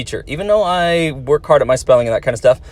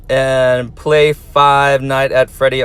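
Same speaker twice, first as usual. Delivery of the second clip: slow reading; much slower than usual. Retold or imitated. Teacher reading a viewer's game request aloud, slow. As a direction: read the request out slowly, word by word. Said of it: "I'm going to warn you, good luck".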